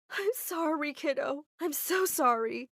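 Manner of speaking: usual speaking voice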